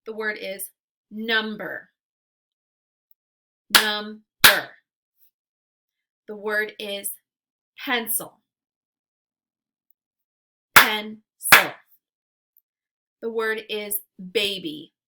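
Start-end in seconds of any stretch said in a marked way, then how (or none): 3.7-4.2 Number as loud "num... ber"; Number with a clear gap between syllables; clapped-out syllables. Shown as a demonstration. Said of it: "clap it out into syllables". 10.8-11.2 Pencil as loud "pen... cil"; clapped-out syllables. Shown as a demonstration. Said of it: "clap it out into syllables".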